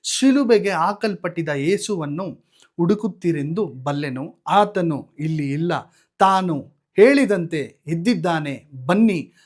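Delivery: loud, slowed proclaiming voice; loud heavenly herald; angel's proclamation. Retold or imitated. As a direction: announce the risen Lord boldly to the women. Angel's words at the tomb.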